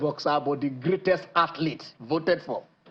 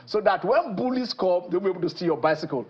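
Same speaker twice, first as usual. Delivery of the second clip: lightly voiced officer, slightly raised pitch; a hint of the helpful policeman; reassuring policeman; 3 semitones higher than usual. Policeman promises boy boxing lessons, lightly acted reassurance. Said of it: "one policeman came and met him".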